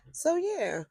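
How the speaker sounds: whispered trailing aside; breathy whispered so yeah. Real, not acted. Trailing off after the story.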